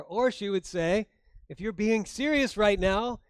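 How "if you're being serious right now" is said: indignant. Retold or imitated. Wife's indignant imagined reply.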